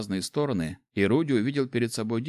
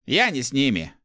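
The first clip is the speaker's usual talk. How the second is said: firm, raised-voice assertion; confident; 5 semitones higher, 5 dB louder than usual. A narrator's reading. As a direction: state it firmly and confidently. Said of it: "уверенно заявил Руди". (уверенно)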